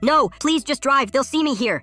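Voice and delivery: high, loud desperate plea; panicked shout. A narrator's reading. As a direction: shout it high, drawing out the first words. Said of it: "the girl shouted".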